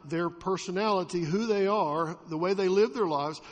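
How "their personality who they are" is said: normal talking voice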